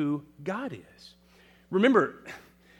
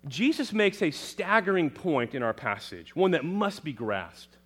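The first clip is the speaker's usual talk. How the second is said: ordinary delivery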